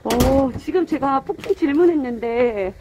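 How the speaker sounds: muffled behind cloth mask; speaking with covered mouth; through a face mask. Real, not acted. Seen 4: Checked cloth mask covers her mouth and nose throughout.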